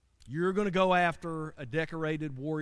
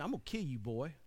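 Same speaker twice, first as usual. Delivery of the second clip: softer and lower, menacing; Goliath's low threat; 3 semitones lower, 7 dB quieter, faster than usual. Retold or imitated. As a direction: growl the threat quietly. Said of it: "he says to me".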